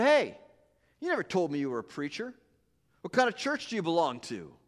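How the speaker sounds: mildly hostile, suspicious; a trace of hostility. Acted. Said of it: "with a trace of hostility".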